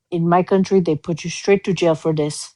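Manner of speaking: imitating a deadpan, understated warning; straight-faced threat. Grandparent to the parent over a bruise, deadpan warning. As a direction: say it evenly to the parent, no coo. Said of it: "then just, like, straight face looks over".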